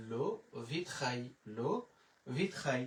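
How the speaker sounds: French le vitrail, lo vit-rai; French demo. Shown as a demonstration. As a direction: say ভিত খাই as French vitrail. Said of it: "তাহলে".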